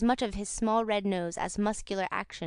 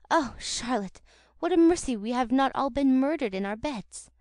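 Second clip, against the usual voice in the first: out of breath; 4 semitones higher, 5 dB louder than usual. Acted. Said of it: "through a deficiency of breath".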